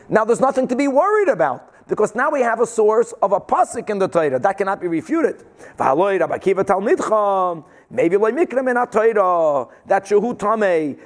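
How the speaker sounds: ordinary delivery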